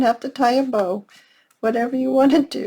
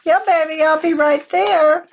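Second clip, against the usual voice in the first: calling out; 5 semitones higher, 3 dB louder than usual. Real, not acted. Calls to granddaughter off task.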